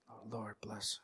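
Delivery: breathy mock-pious whisper under the breath; passive-aggressive whisper. Pastor hushing an overexcited guy, mock whisper. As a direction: whisper it to hush him, half-annoyed. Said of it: "just whisper".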